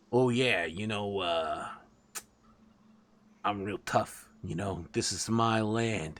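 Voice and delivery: a lightly voiced swaggering rat boss; boastful rat king. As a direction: brag like a self-important king of the rats.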